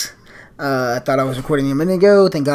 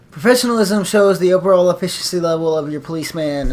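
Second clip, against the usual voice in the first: instructor voice; 5 dB louder than usual. Shown as a demonstration. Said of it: "instructor voice".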